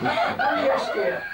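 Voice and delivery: very high, sugary mother voice; sweet ad mum. Acted. Advert mum answering her child, sugary and high. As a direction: coo it like a soap-ad mum.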